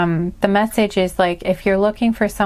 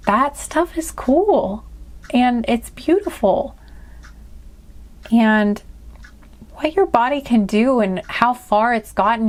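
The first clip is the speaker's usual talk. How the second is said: tearing up. Real, not acted. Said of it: "I'm kinda tearing up here".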